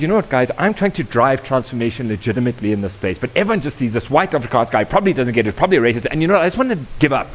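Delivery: an upset senior partner voiced with rising frustration; emotional partner. Law firm partner tells the session group he wants to give up, exasperated and emotional. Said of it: "he got really emotional".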